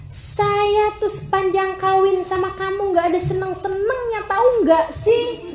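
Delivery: a touch of a fed-up wife snapping; annoyed wife. Pretend. Wife complaining to her husband in irritation. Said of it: "kemudian kamu bilang bahwa".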